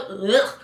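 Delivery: low, throaty "ugh" of disgust. Acted. Sender cringing when they send it, disgusted. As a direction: recoil with a cringe. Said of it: "makes you go".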